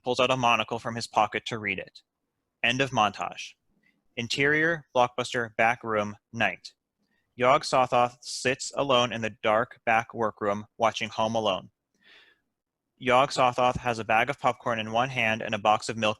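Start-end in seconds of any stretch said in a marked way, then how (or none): none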